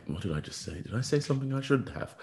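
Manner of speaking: high, rising mock panic, half laughing. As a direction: play up the fear of saying too much. Panicking about what he said.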